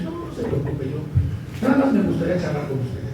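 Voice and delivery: soft, gentle therapist voice; calm the suspicious wife gently; soothing therapist tone. Retold or imitated. Erickson calming the suspicious wife, soft soothing tone. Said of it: "ese tonito de voz que de repente tenemos los psicoterapeutas".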